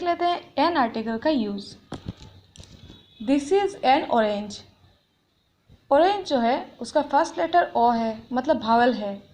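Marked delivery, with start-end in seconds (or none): 3.3-4.6 slow, carefully spaced words; teacher dictating an example, slow; slow example reading. Shown as a demonstration. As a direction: read the example slowly for the class. Example sentence read out.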